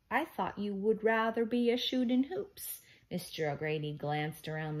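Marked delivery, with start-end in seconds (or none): 0.1-2.8 lightly voiced leprechaun, higher and louder; a hint of lilting leprechaun; leprechaun teacher. A narrator's reading. Storybook leprechaun's Irish-phrased lines.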